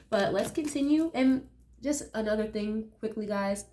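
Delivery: stuffy nose from allergies; nasal voice. Real, not acted. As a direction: talk with a blocked nose. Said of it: "Please excuse my nasally sounding voice".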